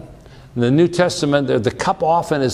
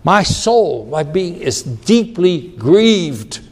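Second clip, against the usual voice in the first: slow, sorrowful voice of a man grieved to death; Jesus telling his disciples his soul is grieved, slow and sorrowful; 4 semitones higher, slower than usual. Acted. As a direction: drag the words out under heavy grief. Jesus' words, deeply grieved.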